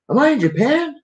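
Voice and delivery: high, panicky squeal of a question; panicked high voice. Retold or imitated. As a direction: act out a frightened dreamer. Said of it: "I'm like".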